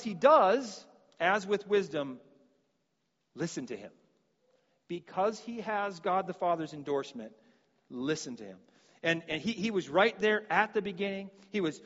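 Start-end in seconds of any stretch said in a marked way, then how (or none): 3.3-3.9 lower, soft, falling refrain; hushed refrain. Acted. Refrain repeated for emphasis. 7.9-8.6 lower, soft, falling refrain; hushed refrain. Acted. Refrain repeated for emphasis.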